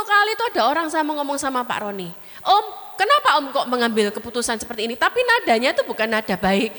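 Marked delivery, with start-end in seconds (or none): 2.4-5.0 a hint of a cheeky nephew challenging; lightly voiced defiant young man, quick. Young man questioning an elder, mildly defiant. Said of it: "nadanya itu nada nantang".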